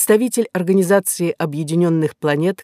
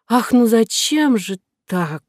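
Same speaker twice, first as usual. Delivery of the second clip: slow breathy whisper, struggling; strained whisper; 6 semitones higher, slower than usual. Acted. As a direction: force the words out in a whisper. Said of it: "с трудом проговорила Кора".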